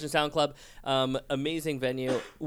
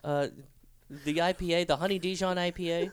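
put-on drunk customer; 4 semitones higher, 4 dB quieter than usual. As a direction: fumble the order like a drunk. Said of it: "they'll just be like".

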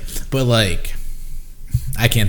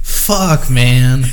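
startled curse; 3 semitones higher, 5 dB louder than usual. Retold or imitated. Friend recalls seeing the veteran, startled curse. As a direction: pitch jumps high on the curse, then louder.

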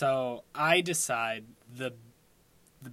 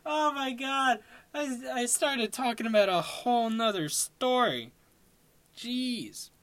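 laughing; 9 semitones higher than usual. Real, not acted. Laughing at own tangent.

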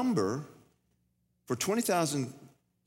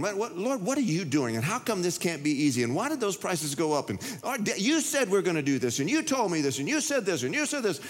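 rising higher as the complaints pile up; storming rant; 5 semitones higher than usual. Retold or imitated. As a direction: rant at God, building. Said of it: "So I'm storming around there going".

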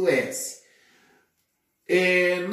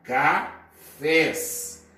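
"cafés" split as ca, pause, fés; syllable by syllable. Shown as a demonstration. Teacher dividing the plural cafés, syllable by syllable. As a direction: say "cafés" in two separate syllables. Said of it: "dividimos em sílabas".

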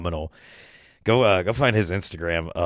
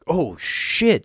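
higher-pitched mock exclamation; retold game reaction; 8 semitones higher than usual. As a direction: react to a sudden play.

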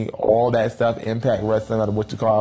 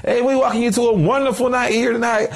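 high, loud hammed-up ring announcer; 12 semitones higher, 3 dB louder than usual. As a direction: boom it out like a wrestling host. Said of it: "I am your host, Michael Cole".

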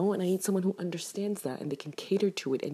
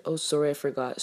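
offhand imitated apology; imitating a breezy excuse; casually nonchalant. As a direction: toss off the sorry as if it's nothing. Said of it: "so casually nonchalant".

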